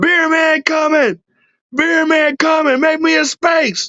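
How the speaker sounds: play-acted shrill scream, very high. Recalling calling out a truck window to clear a spot, retelling own screaming. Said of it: "And I'm screaming out the window".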